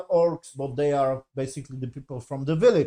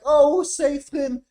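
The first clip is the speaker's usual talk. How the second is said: mock pleading character; 5 semitones higher, 3 dB louder, slower than usual. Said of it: "And he was like".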